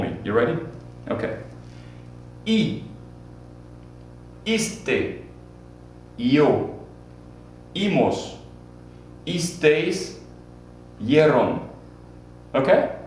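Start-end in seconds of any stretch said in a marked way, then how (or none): 2.5-11.7 I, iste, yo, imos, isteis, yeron said one by one with a pause after each; model endings to repeat. Shown as a demonstration. Teacher models ER and IR endings for students to repeat. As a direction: spell out the ending sounds clearly. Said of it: "I want you to repeat after me".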